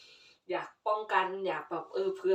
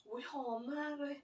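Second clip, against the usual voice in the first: delighted gasp; 6 semitones higher, 10 dB quieter than usual. Real, not acted. Smelling the flowers.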